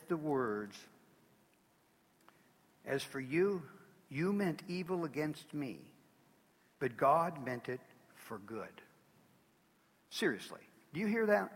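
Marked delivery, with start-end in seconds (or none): 2.8-8.8 quiet reverent reading. Acted. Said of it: "one of the most amazing statements ever made".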